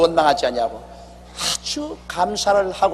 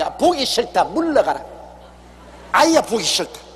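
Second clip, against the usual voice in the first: higher, disgusted brush-off as God; God fed up; 4 semitones higher than usual. Retold or imitated. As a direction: wave the grumbler away, higher and irritated. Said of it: "그렇게 말할 것입니다".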